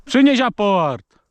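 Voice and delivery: "Przynieś aport." with a small stumble on "Przynieś", said slow and high; a stammered "Przynieś aport." to the dog; slight stammer. Real, not acted. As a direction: trip briefly over "Przynieś" in "Przynieś aport.". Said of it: "Tak się zająknąłem trochę".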